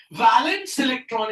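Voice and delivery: वैलेंस ending on an s sound; teacher clearly pronouncing वैलेंस, two syllables; correct pronunciation. Shown as a demonstration. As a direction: model वैलेंस with no final ee. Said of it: "इसको वैलेंसी मत पढ़ना".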